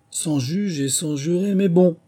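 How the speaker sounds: high, slow mouse character voice; protesting mouse. A narrator's reading. Mouse answers Canichon's lawsuit.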